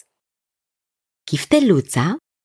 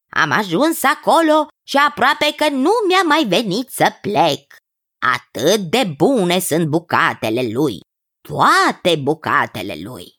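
lightly voiced enthusiastic cousin. Cousin praising a garlic cook to the king, lightly enthusiastic. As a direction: lightly act a cousin relishing his tale.

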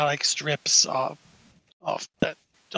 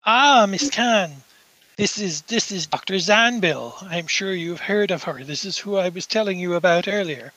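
lightly voiced host making an introduction; lightly played doctor greeting an acquaintance; Doctor Severson. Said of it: "and Doctor Severson goes".

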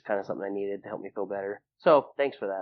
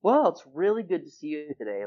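imitating friends' higher, heartfelt greeting; friendly affection; 7 semitones higher, 4 dB louder than usual. Friends glad to see him, imitated high and fond. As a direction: lift the pitch, retelling a fond hello. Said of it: "And they're like".

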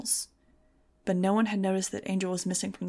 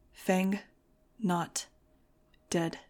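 almost whisper it, numb; hushed grief; much slower than usual. Acted.

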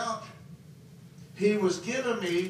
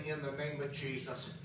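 softer, lower, hardly wanting to say it; reluctant, weak; 4 semitones lower, 8 dB quieter than usual. Retold or imitated. Preacher forcing out a prayer at his weakest, faint and reluctant. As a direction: let it slip out with no strength. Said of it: "I did not even want to say".

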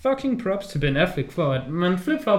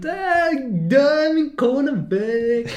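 mock Affleck line; 10 semitones higher, 3 dB louder, much slower than usual. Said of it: "og bare sådan".

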